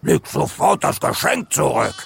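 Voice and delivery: lightly voiced indignant elephant; stamping elephant. A narrator's reading. Elephant orders Leo to return the present, cross. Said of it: "Ein Elefant stampfte auf".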